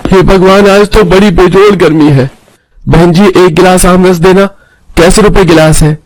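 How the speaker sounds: high-pitched character voice at a juice stall; hot, thirsty customer. Acted. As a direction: complain of the heat, then ask for a glass.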